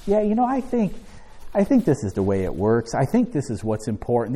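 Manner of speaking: a light hammed-up hesitant voice; mock unsure. Preacher mocking a half-hearted believer, lightly unsure. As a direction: play someone shrugging, half-committed, "I think". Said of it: "This isn't something you say".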